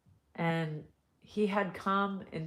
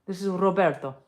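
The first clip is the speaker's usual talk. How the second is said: put-on Italian accent; 5 dB louder, faster than usual. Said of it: "we're Italian".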